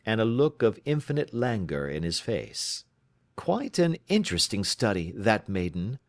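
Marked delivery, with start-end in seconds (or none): 3.4-6.0 lightly voiced, crisp questioning detective; brisk detective. Holmes questioning his client, crisply. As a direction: probe her story, brisk and in command.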